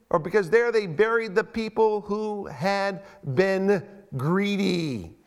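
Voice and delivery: slow, weighty Bible reading; scripture reading. A narrator's reading. Preacher reading God's judgment on the greedy, slow scripture reading. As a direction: read it out with long, stretched stresses. Reads scripture aloud to congregation.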